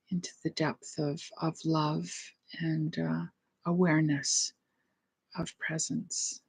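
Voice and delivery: soft, measured meditation voice with long pauses; quietly prayerful, unhurried; guided meditation. Real, not acted. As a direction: let each phrase settle and fade into silence.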